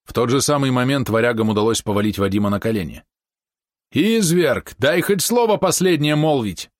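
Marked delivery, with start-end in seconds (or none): 3.9-6.7 higher-pitched desperate outcry; angry cry. A narrator's reading. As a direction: fling it at him in fury. Prisoner cries out at the prince.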